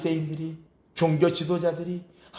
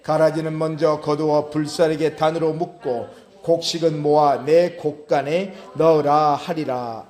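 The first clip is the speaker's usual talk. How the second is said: formal, forceful Bible reading; scripture reading; 4 dB louder than usual. Acted. Preacher to congregation, a vision of the angel, firm scripture reading. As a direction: read the verse out firmly to a congregation.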